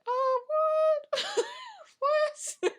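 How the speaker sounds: very high mock-shocked squeal breaking into laughter; laughing disbelief. Podcaster acting out viewers' shock at the game designer reveal, laughing disbelief. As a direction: act out astonishment, cracking up.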